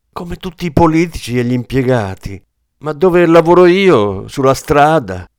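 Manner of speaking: rising to a loud, high hammer blow; ruthless taunt. Acted. Kleber pressing the frozen cop, building to a loud shout. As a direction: push it until you are shouting.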